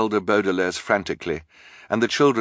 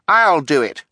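loud, high eager volunteering; 8 semitones higher, 6 dB louder than usual. A narrator's reading. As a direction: jump in keen to be picked. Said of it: "stepping forward eagerly".

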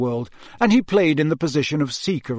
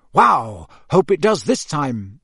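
enthusiastic; 5 dB louder, slower than usual. Acted. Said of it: "said Harry enthusiastically".

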